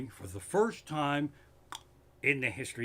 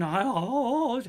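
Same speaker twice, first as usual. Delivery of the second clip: angry rant; 8 semitones higher, 5 dB louder than usual. Real, not acted. Ranting at TV commentators.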